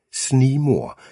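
high-pitched, restrained call of alarm; radioed shout. A narrator's reading. Agent calling into colleague's earpiece after shots, restrained shout. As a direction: call it out as an urgent alert, without full force. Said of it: "bliver der råbt i min øresnegl".

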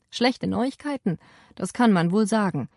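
mildly gasping wounded rider; mock out of breath after the ride; panting. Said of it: "keuchte er".

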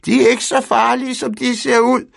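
high, loud teasing call across the field. A narrator's reading. Fru Andersen calling across the field to Pedersen, loud and high. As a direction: shout laughing at the neighbour. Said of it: "råbte hun".

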